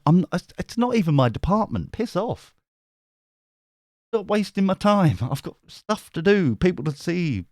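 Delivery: mock indignation, pitched high; high-pitched irritated protest; fed up. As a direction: play an exasperated worker brushing people off. Acted fed-up worker, work emails.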